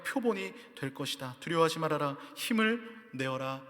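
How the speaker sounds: solemn, measured Bible reading; declaiming a passage from the pulpit; scripture reading. Acted. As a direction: read it out as holy scripture. Reads scripture aloud.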